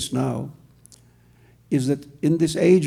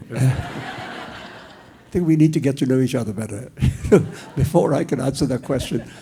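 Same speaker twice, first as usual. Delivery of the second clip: laughing. Real, not acted. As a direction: say it with a real laugh in the voice. Answering while laughing.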